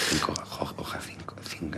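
near-whisper, barely voiced; thinking under breath. Real, not acted. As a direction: puzzle it out in a whisper, to yourself. Mumbling the riddle to himself. (susurrando para sí, pensativo)

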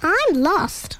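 small lost creature, lightly voiced; a hint of a tiny animal; little creature voice. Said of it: "said the little creature".

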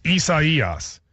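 Isaias with stress on the third syllable, i-sa-I-as; listener's stress fix. Retold or imitated. Quoting a listener's correction of the name Isaias. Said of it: "the emphasis on the wrong syllable".

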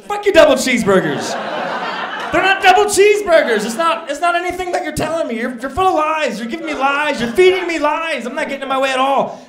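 very high, loud screaming tirade; hammed-up shrieking outrage; furious rant. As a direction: completely lose it on the phone. Retold blow-up at corporate.

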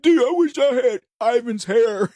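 lightly voiced awestruck schoolkid; envious kids. Host recalls classmates envying his hairy roommate, lightly mimicked kids. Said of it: "kids, we were like".

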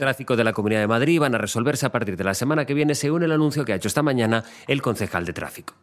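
lectura informativa de muestra, seguida; léelo como una pieza de informativos; locución de noticia. Shown as a demonstration. (locución de noticiario radiofónico)

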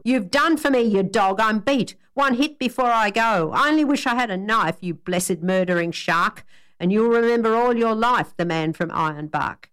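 wounded bushman roaring defiance at the barber; indignant outburst. Acted. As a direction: spit it at the man you think cut your throat.

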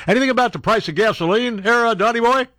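mock heckle at the president; mock reporter heckle. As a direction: needle him like a heckling reporter. Mocking heckle at Trump.

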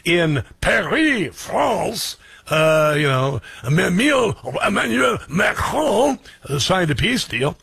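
hammed-up French accent, high and slow; mock French accent. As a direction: parody a newscaster putting on a French accent. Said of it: "They never do, like, a".

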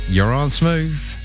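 ordinary delivery

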